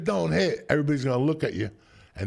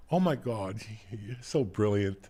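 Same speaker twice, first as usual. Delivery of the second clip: mocking gusher; 4 semitones lower, 3 dB quieter than usual.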